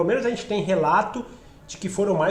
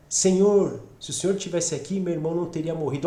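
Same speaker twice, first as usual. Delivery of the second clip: prostrate lament; 2 semitones lower than usual. Acted. Mary fallen at Jesus' feet, humbly lamenting. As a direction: lay the grief gently at His feet. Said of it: "Maria prostrou-se aos seus pés".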